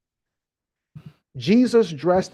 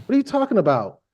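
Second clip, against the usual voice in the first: lightly voiced angel, pitched higher; chilling angel; 5 semitones higher than usual. Angel teasing the weeping woman at the tomb, mock-incredulous and high. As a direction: play a carefree angel in a higher voice. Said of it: "The angels is just chilling like a villain".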